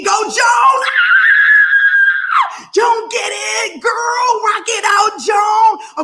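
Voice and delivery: high, loud whoop and cheers; cheering. Real, not acted. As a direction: celebrate her at full volume. Celebrating Joan live.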